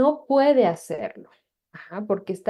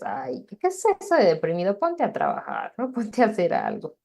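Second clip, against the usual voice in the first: dismissive parent. Retold or imitated. Psychologist imitating parents dismissing a depressed teen, scoffing mock tone. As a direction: wave the feelings away like an impatient father. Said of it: "y los papás decirles".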